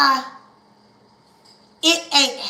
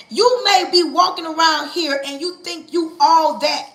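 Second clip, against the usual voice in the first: pastor voice; 2 semitones higher, 3 dB louder than usual. Shown as a demonstration. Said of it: "in my pastor voice".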